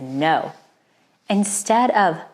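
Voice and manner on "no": a low, flat no from a bad king; lower, hard no; cold refusal. A narrator's reading. Narrator voicing Herod refusing, a low cold no.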